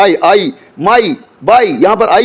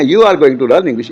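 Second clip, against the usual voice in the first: lower, word-by-word example sentence; slow teaching demo; 5 semitones lower, much slower than usual. Shown as a demonstration. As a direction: lay out each word for the learner. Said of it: "आप अंग्रेजी सीखने लगे हैं". (धीरे और साफ़ उदाहरण)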